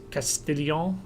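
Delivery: French accent. Real, not acted. Gamer naming a town on the map, French accent. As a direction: place name in a French accent. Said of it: "said that in the French accent".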